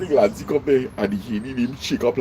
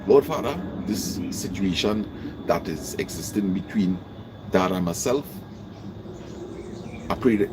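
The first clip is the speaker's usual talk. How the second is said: humble prayer; 5 semitones lower than usual. Shown as a demonstration. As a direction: pray humbly for your own insight. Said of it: "you hear the difference?".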